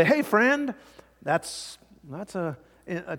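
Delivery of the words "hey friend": friendly greeting. Shown as a demonstration. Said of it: "If I say".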